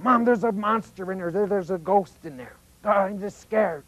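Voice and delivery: put-on scared child. Child runs in scared at night.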